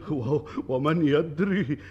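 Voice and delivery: laughing. Acted. Laughs at the shared dream.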